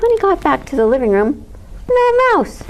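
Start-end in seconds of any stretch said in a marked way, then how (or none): 1.9-2.6 surprised. A narrator's reading. Bear finds Mouse gone again.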